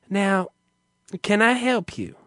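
lightly voiced effeminate clerk; hint of a campy drive-thru greeting; feminine male clerk. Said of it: "and he asks".

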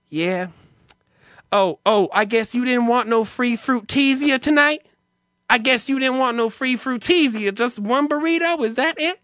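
high, baffled drive-thru clerk impression; mock an effeminate man asking, pitch way up; feminine male clerk. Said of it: "He's very feminine sounding".

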